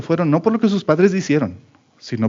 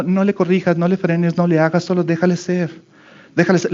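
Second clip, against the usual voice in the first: lightly voiced, higher, sing-song advice giver; mock permissive advice; 4 semitones higher than usual. Preacher mocking what people tell parents, higher. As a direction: parrot the trendy advice a bit higher. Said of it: "a la gente diciendo".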